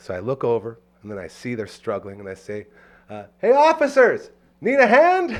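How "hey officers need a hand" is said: super cheerful, very high, very loud voice. Retelling offering struggling police officers a hand: imitating the happiest neighbor. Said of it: "just the happiest neighbor".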